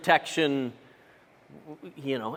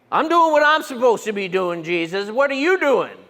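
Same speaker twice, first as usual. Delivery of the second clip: mock indignant complaint; 3 semitones higher, 3 dB louder than usual. Disciples complaining to Jesus.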